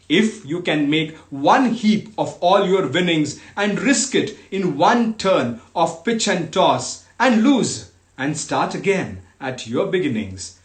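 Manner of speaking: measured, emphatic reading with falling phrase ends; poem recitation. Acted. Host reading Kipling's fatherly poem to online listeners, emphatic recitation. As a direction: declaim each clause with deliberate pauses. Continues the poem after an aside.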